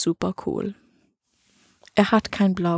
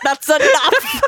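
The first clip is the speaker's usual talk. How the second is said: mock German host parent; 9 semitones higher, 5 dB louder, slower than usual. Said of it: "host parents they're like".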